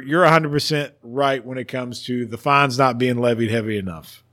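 winded after a long rant; breathless, running out of air; out of breath. Real, not acted. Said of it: "I'm out of breath after all that".

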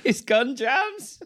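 slow and high, each word drawn out like a movie voiceover; dramatic trailer voice. Retold or imitated. Telling a friend the movie scene, slow dramatic voiceover. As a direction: build suspense as you tell the friend the gun jams.

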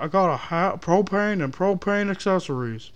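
lightly done cartoon Texan propane salesman; tossed-off Texan dad voice; Hank Hill impression. Joking after sounding like him, a light Hank Hill voice. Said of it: "did I sound like fucking Hank Hill".

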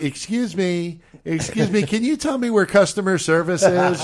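overly polite high customer voice; sweetly polite, asking the help desk; customer service voice. Retold or imitated. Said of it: "you're not like".

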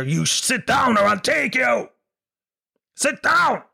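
high, harsh yelled order; the hired man yelling at a misbehaving child; bogeyman shout. Pretend. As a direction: bark it at the kid. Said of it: "the man scaring a child".

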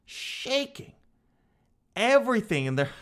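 high, mocking repeat of the complaint; high mocking squeak; mocking squeal. Shown as a demonstration. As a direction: squeak it out like a whiny neighbor. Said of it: "It's shaking everything in their house".

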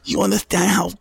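a hint of Tyson, building excitement; mock Tyson fanboy. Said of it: "And he goes".

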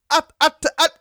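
high, timid squeaky voice; meek husband voice. Retold or imitated. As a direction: play the cowed submissive husband. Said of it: "Jim Cornette's a sub".

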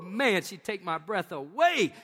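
mild awe. Retold or imitated. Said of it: "I'm like".

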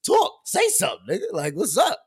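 high-pitched exasperated prodding; goading. Retold or imitated. Streamer urging a silent live viewer to talk, high and goading. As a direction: prod them to speak up, voice leaping high.

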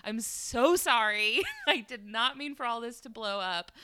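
retold, emphatic pleading apology; embarrassed, insistent disbelief; mortified apology. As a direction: stretch the apology out in dismay.

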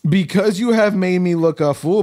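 Balaam shouts at his donkey; shouted. A narrator's reading. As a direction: yell it at the donkey. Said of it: "Balaam shouted".

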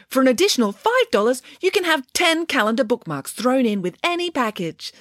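lightly voiced happy elf; a touch of cheerful sales pitch; christmas elf. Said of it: "said the elf happily".

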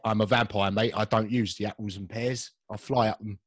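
a hint of a Cockney vampire; light Cockney geezer vampire. Host playing a Cockney vampire to his co-host, mild Cockney. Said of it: "Shall I do a Cockney vampire?".

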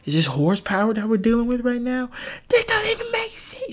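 hammed-up bafflement at the noise; mock incredulous. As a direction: climb into a squeaky imitation of being baffled. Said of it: "you're like".

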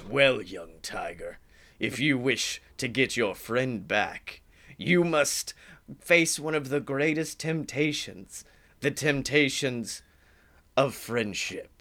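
a dark, tempting offer from the devil; Satan voice. Retold or imitated. Satan answers Tigger.

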